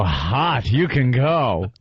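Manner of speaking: low, drawn-out approving cop. Retold or imitated. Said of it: "The cops are gonna go".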